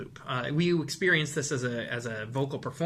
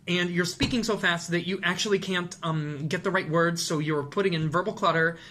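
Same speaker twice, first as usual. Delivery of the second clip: rushed speech; 2 semitones higher than usual. Shown as a demonstration. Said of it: "something that sounds like this".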